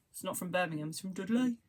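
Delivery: light Black Country imitation, lifting on "Dudley"; mock Dudley accent. Repeating the Lenny Henry routine, mock Dudley accent. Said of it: "I always do the whole".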